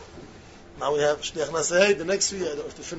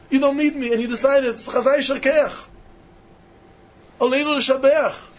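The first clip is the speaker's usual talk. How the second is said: higher and louder, pouring out thanks; fervent plea to God; 6 semitones higher, 4 dB louder than usual. Acted. Preacher voicing a Jew thanking God, higher and louder. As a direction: speak up to Heaven with rising fervour.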